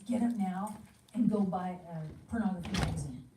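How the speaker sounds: loud, pushy inner command; a retold nagging urge; urging command. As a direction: push him out of bed with it.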